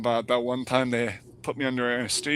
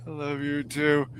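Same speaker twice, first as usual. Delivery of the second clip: lightly imitating a sedated mumble; groggy reply from under anesthesia, played lightly; heavily sedated. Sedated patient answering mom's phone call, lightly groggy. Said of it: "deeply in under anesthesia sedation".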